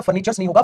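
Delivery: फर्नीचर्स नहीं होगा said loud and firm; stress on नहीं. Shown as a demonstration. Teacher correcting students, stressing नहीं. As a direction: hammer the wrong form नहीं. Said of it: "दूसरा no furnitures बेटा".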